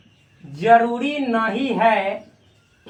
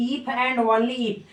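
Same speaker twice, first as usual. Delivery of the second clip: slow read-aloud; 3 dB quieter, much slower than usual. Shown as a demonstration. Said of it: "ऐसे भी पढ़ा जाता है".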